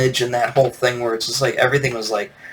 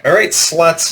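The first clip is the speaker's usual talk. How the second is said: higher mock party girl call; lightly put-on party girl rallying her friends; 5 semitones higher, 4 dB louder, slower than usual. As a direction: imitate an annoying party girl. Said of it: "party girl voice".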